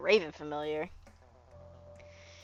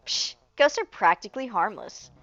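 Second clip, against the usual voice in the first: camp voice. Acted. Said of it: "why'd I give him the gay voice".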